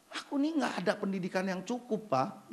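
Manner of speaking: a hint of a shy church member; mock humble excuse. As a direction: sound embarrassed and small. Mimics a low excuse.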